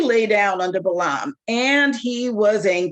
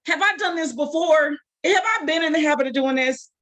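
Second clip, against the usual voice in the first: sarcastic donkey; 5 semitones higher than usual. Acted. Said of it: "some sarcasm".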